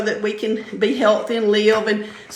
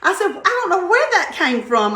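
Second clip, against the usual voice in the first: laughing retelling; 8 semitones higher than usual. Retold or imitated. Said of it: "I was about to die laughing".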